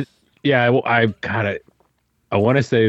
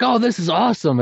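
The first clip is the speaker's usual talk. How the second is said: mock excitement; 12 semitones higher than usual. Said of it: "they're like".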